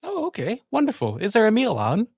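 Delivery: high, bright-pitched noble officer, pleased; lieutenant character voice. Acted. The lieutenant to the guard, high and gracious. Player voicing her character.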